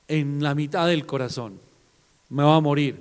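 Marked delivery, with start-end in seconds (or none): 2.3-3.0 mock anguish. Acting out a heartbroken reaction.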